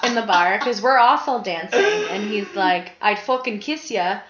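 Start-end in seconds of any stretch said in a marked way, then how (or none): 3.0-4.2 imitated Englishman's accent; English accent. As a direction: quote him in an English accent. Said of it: "good accent".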